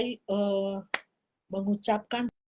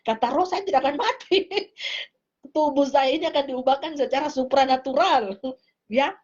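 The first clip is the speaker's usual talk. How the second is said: amused laughter, gently louder; laughing; 2 semitones higher, 3 dB louder than usual. Real, not acted. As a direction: giggle as you claim you won't die. Laughs about not dying.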